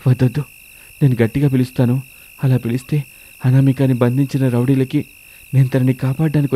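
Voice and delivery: lightly voiced young husband thinking aloud; anxious searching husband. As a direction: think aloud with a touch of worry. Narrator voices searching husband Ramesh. (కాస్త ఆందోళనగా తనలో తాను ఆలోచించే భర్త)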